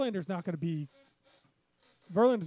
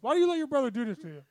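laughing; 5 semitones higher, faster than usual. Real, not acted. Laughing at brother's rant.

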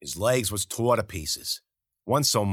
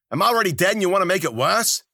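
angry shout; 11 semitones higher, 7 dB louder than usual. Acted. Dying man yelling back angrily.

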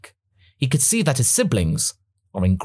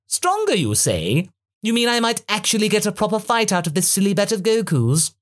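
intrigued Frieza voice; 8 semitones higher than usual. Acted. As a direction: savour the promise of a fight.

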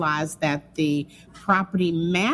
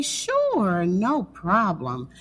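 drawn-out yes; 2 semitones higher, much slower than usual. Retold or imitated. Third agreement to rising rent.

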